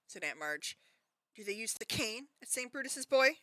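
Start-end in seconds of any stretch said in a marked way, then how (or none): 1.3-3.4 barked question. A narrator's reading. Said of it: "she barked across the table".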